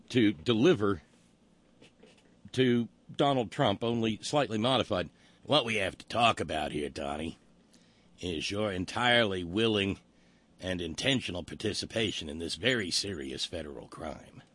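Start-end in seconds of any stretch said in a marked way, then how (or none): 5.4-14.4 Columbo voice. Retold or imitated. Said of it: "someone who does a competent Peter Falk".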